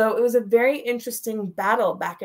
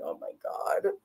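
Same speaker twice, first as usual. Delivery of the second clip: higher, breathy, soft shocked gasp; a stunned gasp; aghast gasp; 12 semitones higher, 9 dB quieter than usual. Retold or imitated. Daughter shocked as her mother pulls away, aghast gasp.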